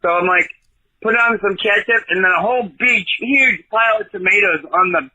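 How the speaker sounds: a hint of a put-on Southern accent all through; fake Southern accent. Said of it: "that's a totally fake accent".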